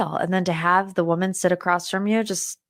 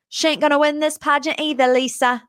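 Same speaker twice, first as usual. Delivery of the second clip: higher, fast quoted catchphrase; put-on voice, rattled off higher; James Kennedy impression; 6 semitones higher than usual. Host quoting an iconic reunion line to Lisa, imitated. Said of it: "just James Kennedy iconic line".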